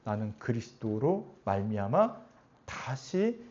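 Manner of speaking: soft, low inner voice; hushed, measured personal confession; quiet self-affirmation. Acted. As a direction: affirm it softly to yourself, slowing down. Imagined believer's quiet self-affirmation.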